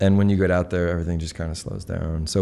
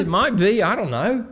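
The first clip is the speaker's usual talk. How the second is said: put-on playful high Australian accent; 14 semitones higher than usual. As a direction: keep the Australian accent going, teasing. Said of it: "is that your Australian accent".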